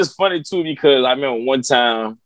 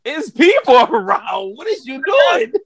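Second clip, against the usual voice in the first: rising, pitched-up disbelief; high flustered plea; 10 semitones higher than usual. Retold or imitated. He reacts to the dad peeing by the pump, rising and incredulous. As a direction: climb higher as you protest.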